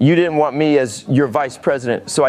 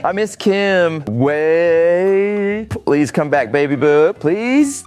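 tearful pleading; much slower than usual. Acted. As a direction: plead for an ex to return. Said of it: "Oh, are you crying now?".

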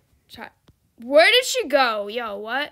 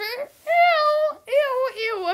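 much higher disgusted squeals; squealed ew; 12 semitones higher, much slower than usual. Real, not acted. Streamer squealing ew at the bodyguard. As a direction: shriek ew in disgust.

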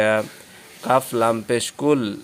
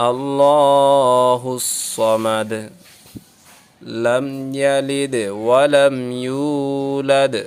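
Quran recitation; much slower than usual. Shown as a demonstration. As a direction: chant each verse slowly with long vowels. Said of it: "teacher recites full surah".

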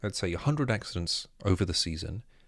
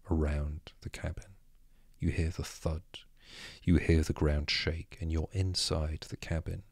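calm storytelling to closed eyes; sleep story narrator. Acted. Guided story exercise.

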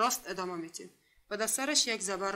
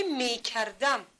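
slow, careful word; much slower than usual. Shown as a demonstration. Teacher presenting the word to pupils, slow and careful. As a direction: space out می, کر, دم a little.

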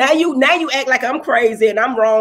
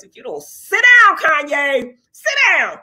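scolding a rapper; slower than usual. Real, not acted. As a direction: order a rapper to sit down, fed up.

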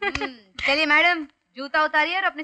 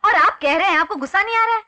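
laughing taunt; 4 semitones higher, 5 dB louder, faster than usual. Acted. Taunting him about his anger.

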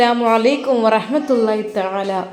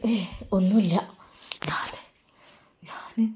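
much softer, trailing away guiltily; evasive mumble; 2 semitones lower, 10 dB quieter than usual. Acted. Caught mother-in-law dodging her daughter-in-law, soft and trailing. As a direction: hide that you're out of breath.

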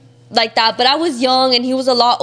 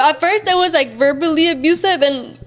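higher, fighting back tears; tearful; 4 semitones higher than usual. Real, not acted. Telling the interviewer about the abuse, tearful and strained. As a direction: push the words out through tears. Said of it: "wait, I don't wanna cry".

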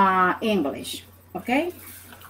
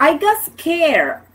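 startled exclamation; 6 semitones higher than usual. Shown as a demonstration. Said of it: "exclamation for, uh, pain or surprise".

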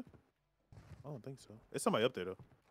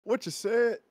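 confused question; 7 semitones higher, 4 dB louder, slower than usual. Retold or imitated. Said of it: "I was like".

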